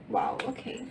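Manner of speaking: hushed, breathy whisper; whispered wow. Real, not acted. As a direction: whisper it in awe. Quiet reaction to a card.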